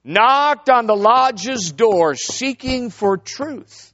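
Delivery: slow, solemn lodge chant; drawn-out ceremonial recital; Masonic ritual recitation. Retold or imitated. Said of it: "they begin to say".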